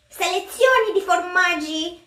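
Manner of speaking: reading the cheese label in a put-on Italian accent; mock Italian. Cook reading the Parmesan label to viewers, mock Italian accent. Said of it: "like my Italian".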